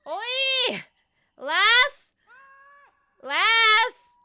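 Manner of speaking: high, loud British-style calls; mock British accent. Shown as a demonstration. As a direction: holler each word as an exaggerated Brit. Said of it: "which one will be more British accent".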